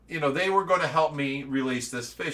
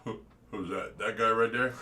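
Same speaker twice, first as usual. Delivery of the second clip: low, soft impression of a big man's voice; quiet low Shaq impression, amused; 5 semitones lower, 4 dB quieter than usual. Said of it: "And he goes".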